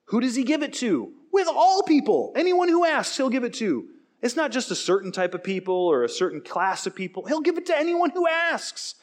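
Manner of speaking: high-pitched, impassioned proclamation; emphatic preaching. Real, not acted. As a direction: drive it home, voice leaping high. Preacher driving home his point.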